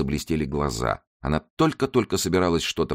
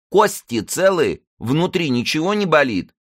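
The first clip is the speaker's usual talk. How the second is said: high-pitched womanish fussing; 13 semitones higher, 5 dB louder than usual. A narrator's reading. Zaika asks Karolina about her bones, womanish. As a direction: press with worried questions in a high voice. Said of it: "голос его прозвучал совсем по бабье".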